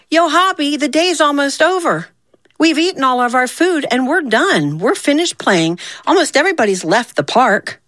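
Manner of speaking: put-on high, light ant girl voice. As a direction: play Zia high and light. Zia voiced higher.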